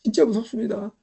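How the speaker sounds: normal talking voice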